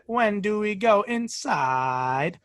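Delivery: slow, odd rising intonation; robot mimicking child. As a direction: drag it out with strange tune. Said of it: "Very unusual intonation".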